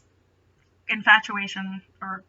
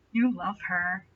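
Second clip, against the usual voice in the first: gentle voice; 3 semitones lower, 8 dB quieter, slower than usual. A narrator's reading. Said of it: "he said with a gentle voice".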